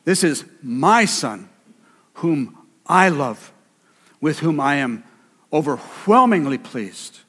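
slow, weighted "This is my Son, whom I love"; the Father's words, held slowly; slow emphatic quote. Shown as a demonstration. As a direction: let each phrase land slowly. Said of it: "Very simple".

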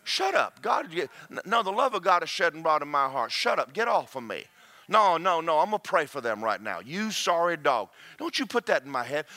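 firm scolding of a thought; mild mock rebuke; rebuking a spirit. Shown as a demonstration. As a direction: tell the spirit off. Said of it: "talk to that spirit".

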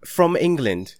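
high-pitched fake London accent; mock English accent. Asking whether any actors were English, mock English accent. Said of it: "I didn't know you were from England".

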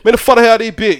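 quick Georgia slur, syllables dropped; super fast. Shown as a demonstration. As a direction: run the words together quickly. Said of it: "super fast".

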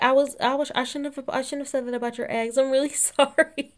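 high, stammered mock apology; flustered apology. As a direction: stumble through it like a fake-sorry kid. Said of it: "She's like".

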